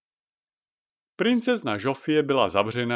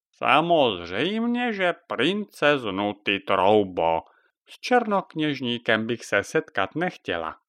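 croaking witch. Acted. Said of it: "zaskřehotala Jaga".

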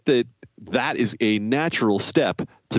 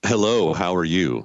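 low, smooth sultry greeting; 3 semitones lower than usual. Pretend. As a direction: say hello like a late-night radio host. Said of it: "Let's start with the sultry voice of Adam".

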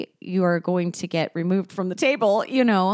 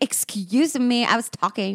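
performance-art retort; 4 semitones higher than usual. Acted. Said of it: "do some, like, performance art here".

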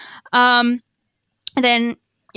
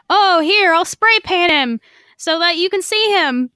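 Sabine voice; 6 semitones higher, 3 dB louder than usual. Retold or imitated. Sabine voiced in retold scene.

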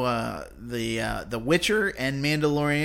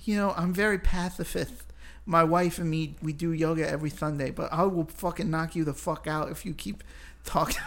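Mike Tyson impression; 3 semitones higher than usual. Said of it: "talk like Mike Tyson".

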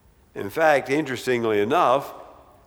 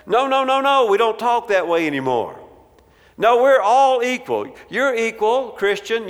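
higher, indignant protest; upset students; 4 semitones higher than usual. Retold or imitated. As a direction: mimic outraged students cutting him off. Upset students voiced by preacher.

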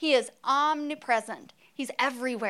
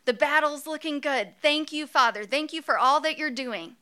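Moses impersonation. Pretend. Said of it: "I'm gonna do my best Moses impersonation".

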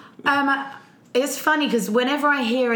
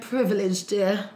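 snooty reply; 3 semitones lower, 3 dB quieter, slower than usual. Retold or imitated. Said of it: "She went".

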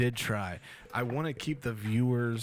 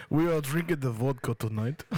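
put-on Russian accent; 2 semitones higher, 4 dB louder than usual. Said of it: "in a Russian accent".

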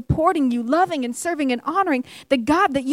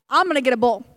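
pitched lower, toward himself; pointing at self; 4 semitones lower, faster than usual. Retold or imitated. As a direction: drop the voice for "I'm".

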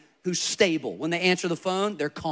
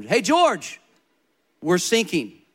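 loud call of Hey George, not a full yell; boy calling out to his grandfather in alarm; 4 dB louder, slower than usual. Retold or imitated. Boy on the sinking boat warns George, loud call.

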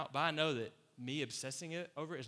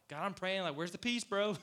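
frustrated; 5 semitones higher, 3 dB louder than usual. Retold or imitated.

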